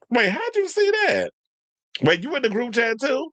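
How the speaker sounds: high-pitched startled question; wait, what, caught off guard; surprised. Real, not acted. Surprised at friend knowing.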